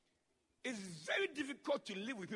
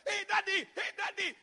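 put-on higher, childlike greeting; excited child; 10 semitones higher, 6 dB louder than usual. Preacher voices his little daughter greeting him, high and excited. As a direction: squeal a happy welcome to daddy.

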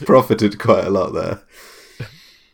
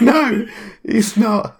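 put-on much higher, hesitant teenage clerk; gym clerk voice; 5 dB louder, much slower than usual. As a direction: squeak out as the nervous acne-ridden clerk. Clerk voice answering players.

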